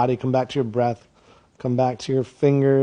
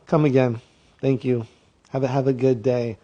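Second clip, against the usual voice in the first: sweet customer-service voice; fake polite clerk; 2 semitones lower, 5 dB quieter than usual. Clerk forcing politeness to a customer, sugary. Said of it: "but you were like this".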